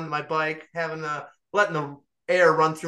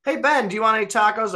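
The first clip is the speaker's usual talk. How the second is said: chirpy mom voice; 6 semitones higher, 5 dB louder, faster than usual. Retold or imitated. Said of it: "she's like".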